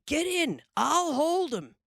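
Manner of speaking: rough order. Acted. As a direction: bark it at your partner. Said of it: "he said to the other fellow".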